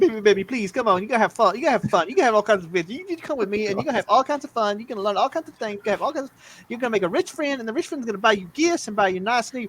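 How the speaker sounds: high, sweet-talking, coaxing, really pleading voice. Running a tabletop game, the speaker voices a character pleading. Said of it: "He's like really pleading".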